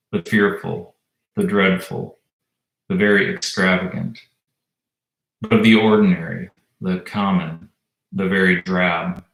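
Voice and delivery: measured poetry reading with long pauses between phrases; poem reading. Acted. Meditation leader opens the session with a poem, measured poetry reading. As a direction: read it line by line, letting each image land.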